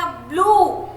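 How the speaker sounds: ब्लू with a stretched "oo"; ब्लू held long. Shown as a demonstration. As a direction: draw out the vowel in ब्लू. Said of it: "हम उसको थोड़ा खींच रहे हैं".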